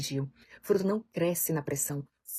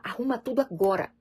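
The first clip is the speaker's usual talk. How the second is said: mild mock order; 4 semitones higher, 3 dB louder than usual. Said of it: "Ao invés de falar".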